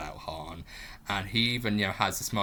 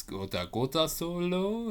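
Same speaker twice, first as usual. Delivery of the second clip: alien voice; 9 semitones higher than usual. Retold or imitated. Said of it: "the alien goes".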